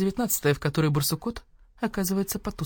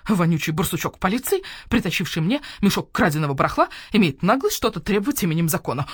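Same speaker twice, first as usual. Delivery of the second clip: owl shopkeeper voice; 4 dB louder than usual. Acted. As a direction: voice the grumpy owl merchant. Owl scorns the badger-cat.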